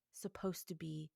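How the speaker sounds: breathy hushed close; soft unvoiced closing words; whisper. Real, not acted. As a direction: whisper it as a final charge.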